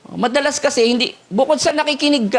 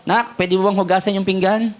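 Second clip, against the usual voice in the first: gentle request. Shown as a demonstration. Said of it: "Ibig na sabihin".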